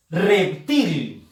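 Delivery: "Reptil" with the force on "til"; stress on last syllable. Shown as a demonstration. Teacher showing students where "Reptil" is stressed, stress on "til". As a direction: lean on the final "til" of "Reptil". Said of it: "la fuerza de voz está en la sílaba til".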